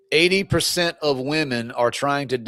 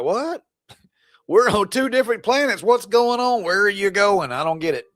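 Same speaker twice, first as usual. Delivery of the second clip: mock bewildered husband; 5 semitones higher than usual. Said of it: "And that dude's like".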